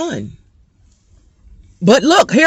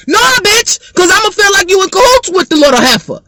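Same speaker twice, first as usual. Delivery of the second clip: loud retort; 9 semitones higher, 3 dB louder than usual. Real, not acted. Rejecting a late report.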